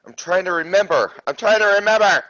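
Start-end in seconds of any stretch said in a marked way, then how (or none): 1.3-2.2 higher, pressured repeat of a protest; flustered insistence. Real, not acted. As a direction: insist under pressure, pitch climbing. Repeats it, more exasperated.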